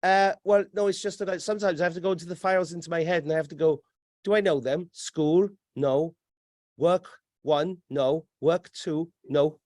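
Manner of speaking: lightly voiced robot searching its files; a hint of glitching robot recital; malfunctioning robot. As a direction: mimic a machine running through options. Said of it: "It's a malfunctioning robot".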